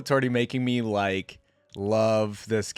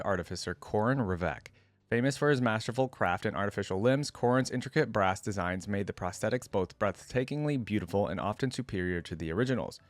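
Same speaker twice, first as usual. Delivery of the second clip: story narration. A narrator's reading. YouTuber reading Oriana's biography to viewers, story narration. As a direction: clear read-aloud biography voice. Reads the champion's story aloud.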